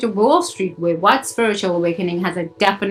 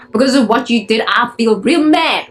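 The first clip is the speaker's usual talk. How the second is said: demo angry prayer; 3 semitones higher, 4 dB louder than usual. Shown as a demonstration. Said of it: "or whatever the hell you feel towards God".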